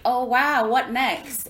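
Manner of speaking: high, loud, wide-eyed wow; mock wonder. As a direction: gasp at life's surprises.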